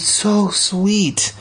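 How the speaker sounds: adoring. A narrator's reading. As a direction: coo it fondly. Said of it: "I whispered".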